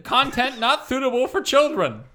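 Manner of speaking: a hint of a broadcast warning; Murray voice. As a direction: read the warning like a pompous host. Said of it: "I'm gonna do it in Murray".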